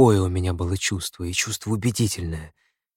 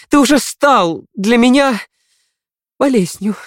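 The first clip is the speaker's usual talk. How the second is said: much higher and louder, near breaking; anguished outburst; 12 semitones higher, 8 dB louder than usual. A narrator's reading. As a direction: pour out the confession at a high pitch. Her anguished confession, voice soaring.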